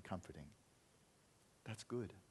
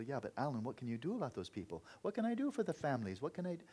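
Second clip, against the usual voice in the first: anxious fretting; 3 semitones higher than usual. Acted. Compassion voiced, fretting about families.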